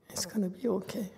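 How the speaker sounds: high, soft reassurance; soft, high and tender comfort; soothing. Real, not acted. Master comforting crying student.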